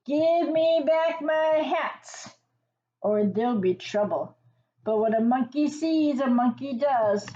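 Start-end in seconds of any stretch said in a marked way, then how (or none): 0.1-4.4 mock angry threat. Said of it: "waved it at them".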